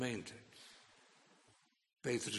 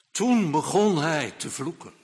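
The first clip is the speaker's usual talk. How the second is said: loud emphatic preaching; 4 semitones higher, 11 dB louder than usual. Acted. Preacher stresses the cursing.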